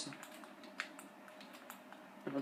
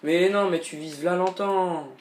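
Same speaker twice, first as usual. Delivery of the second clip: raging gamer; 3 semitones higher, 5 dB louder than usual. Real, not acted.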